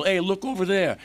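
high-pitched wise-guy call-out; mock distraction call. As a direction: call out to divert someone's attention, lightly acted. Boys distracting shopkeeper, acted out.

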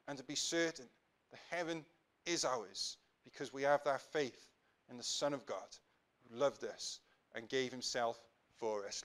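measured prayer in short, paused phrases; public prayer. Real, not acted. Pastor praying for his congregation, earnest measured prayer. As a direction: address God earnestly, phrase by phrase.

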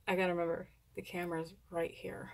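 hushed aside to himself; whispered aside. Real, not acted. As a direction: whisper it as if nobody hears. Aside to himself about the camera.

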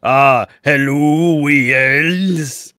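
slow, posh-ish mock English greeting; lightly mocking English accent. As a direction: drag out hello like a smug English fan. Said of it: "a bunch of English people going".

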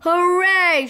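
high, loud hooray; cheering shout. Acted. Kipper cheering as the genie flees, shouting. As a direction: cheer like a happy child. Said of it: "shouted the Kipper".

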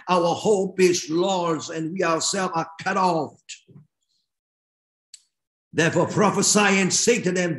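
measured, emphatic Bible reading from the pulpit; scripture reading. Real, not acted. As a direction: proclaim the prophet's words to the congregation. Resumes reading scripture aloud.

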